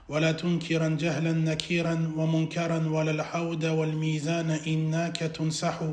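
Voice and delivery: evenly intoned Arabic verse; monotone chanted couplet; poem recitation. Acted. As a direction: recite the verse on a steady note.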